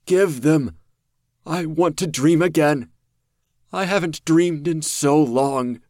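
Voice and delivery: loud, high, eerie creature pleading; the monster begging to dream again; desperate monster. A narrator's reading. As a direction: crave it with your whole being.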